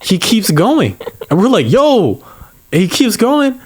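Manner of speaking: high, laughing retelling; can barely tell it for laughing; laughter breaking through the story; laughing while telling. Real, not acted. Laughing retelling of reckless driver.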